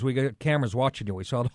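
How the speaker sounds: lightly voiced Hispanic accent; imitated Hispanic accent. Gas station man warning customer, imitated Hispanic accent. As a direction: quote him in a Hispanic accent. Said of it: "That was a good accent".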